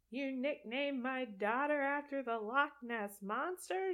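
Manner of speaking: lightly voiced outraged mom; a hint of Bella flying off the handle; mock Bella fuming that her daughter is named after a monster; mock upset Bella. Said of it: "She doesn't sound like that".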